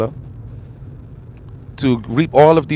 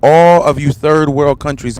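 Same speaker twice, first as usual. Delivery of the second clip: loud emphatic declaration; 6 dB louder than usual. Real, not acted. Ranting about the ban.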